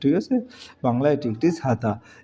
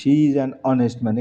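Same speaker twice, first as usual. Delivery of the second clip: slow dictation; 3 dB louder, much slower than usual. Shown as a demonstration. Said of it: "কারণ এটার উচ্চারণটা honest-এর".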